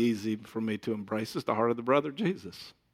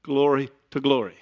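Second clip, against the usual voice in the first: "Glory to glory" with a louder, leaned-on "glory"; emphasize glory; 5 dB louder than usual. Shown as a demonstration. Preacher repeats the verse to emphasize "glory", louder. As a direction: stress each "glory", falling. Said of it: "I should emphasize that".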